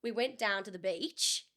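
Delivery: broad Australian; Australian twang, drawn out at the end; Australian accent. Shown as a demonstration. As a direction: attempt a broad Aussie accent.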